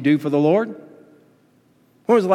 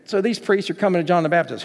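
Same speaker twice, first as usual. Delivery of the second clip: ordinary talk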